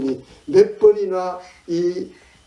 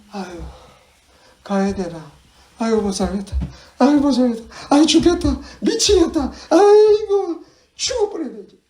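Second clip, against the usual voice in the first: wailing lament climbing higher and louder; acted fed-up despair; 8 semitones higher, 5 dB louder than usual. Preacher voices exhausted Israelites at their limit, exasperated wail. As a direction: build from weary grumble to a hammed-up wail. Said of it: "너무 지치고 피곤하고".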